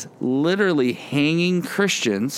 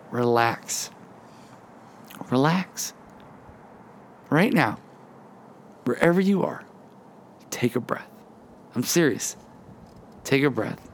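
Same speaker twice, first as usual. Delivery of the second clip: calming reassurance; 3 dB quieter than usual. Real, not acted. Preacher telling listeners to relax and breathe, calming reassurance. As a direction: let each short phrase settle before the next.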